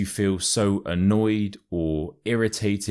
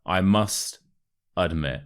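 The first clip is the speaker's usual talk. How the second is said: say-along drill. Shown as a demonstration. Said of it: "Let's say it together".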